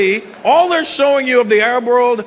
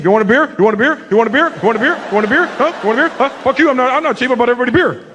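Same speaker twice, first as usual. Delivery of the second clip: pushy white guy; 4 semitones higher, faster than usual. Retold or imitated. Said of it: "That's how white guys get around being cheap".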